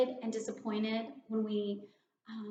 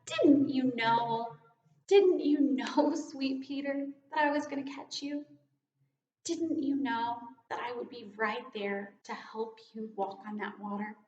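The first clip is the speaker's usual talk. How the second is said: pleading. Retold or imitated. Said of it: "like pleading".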